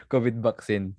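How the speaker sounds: Filipino-accented "kobid baksin". Shown as a demonstration. Host repeating the meme words back, Filipino accent. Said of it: "covid vaccine with a Filipino accent".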